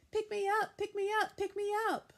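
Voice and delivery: very high, loud, bouncing plea; little girl begging grandma to pick her up. A narrator's reading. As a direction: jump and demand to be lifted. Child jumping, begging grandma.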